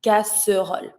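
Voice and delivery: casserole with the middle e voiced; middle E sounded. Shown as a demonstration. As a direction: give casserole all three syllables. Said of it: "is the E sound".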